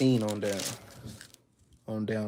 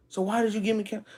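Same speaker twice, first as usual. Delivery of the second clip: much higher, fast, accusing voice of the misled follower; indignant question; 9 semitones higher, faster than usual. Acted. Misled follower confronts his counselor, high and fast. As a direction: fire it back high and quick, feeling cheated. Acted quarrel with bad counselor.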